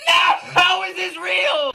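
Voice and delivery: high, slow stunned question; disbelief. Real, not acted. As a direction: ask it stunned, pitch way up.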